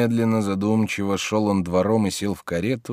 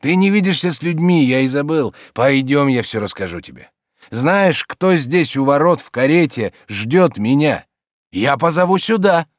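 lightly voiced friend pressing, a bit louder; lively coaxing, louder; Stolz, eager urging; 5 semitones higher, 5 dB louder than usual. A narrator's reading. (слегка озвученный оживлённый Штольц)

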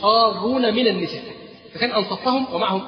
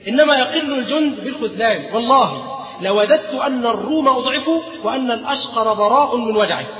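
raised, higher and louder defiant oath; angry vow; 3 semitones higher, 4 dB louder than usual. Acted. Khalid swears before his men, angry and defiant. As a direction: swear it with fierce resolve. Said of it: "فقال خالد في غضب عظيم".

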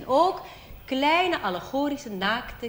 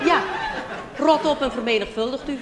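loud, high mock-solemn decree; booming Jehovah; 5 semitones higher, 6 dB louder than usual. Comic Jehovah voice to friend, loud and grand. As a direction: thunder it like a stern church god. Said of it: "Roomse Jehovah".

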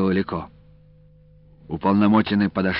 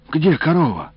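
anxious, higher call for the cow; alarmed cry; 8 semitones higher, 4 dB louder than usual. A narrator's reading. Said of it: "встревоженно воскликнула бабушка".

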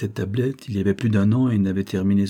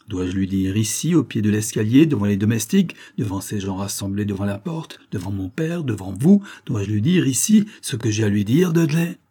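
defiant confrontation. Acted. Agnès confronting Dudley publicly.

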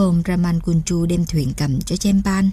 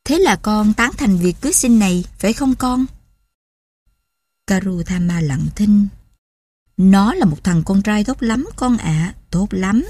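smiling coaxing. Acted. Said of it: "rạng lên một nụ cười tươi tỉnh".

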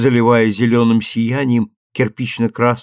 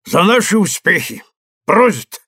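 toast; 7 semitones higher, 4 dB louder than usual. A narrator's reading.

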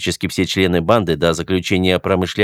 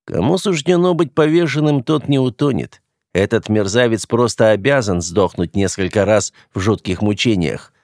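emotional verdict. Acted. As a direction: pronounce the sentence with heat. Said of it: "эмоционально вынес приговор".

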